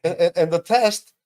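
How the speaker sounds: curious question. Retold or imitated. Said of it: "I was like".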